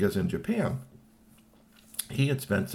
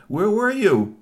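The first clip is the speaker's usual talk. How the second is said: high, loud querying cry; raised voice wanting an answer; demanding question; 12 semitones higher, 7 dB louder, slower than usual. Acted. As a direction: call out the question, pitched way up. Imagined question to returning toy.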